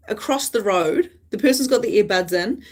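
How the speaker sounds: usual speaking voice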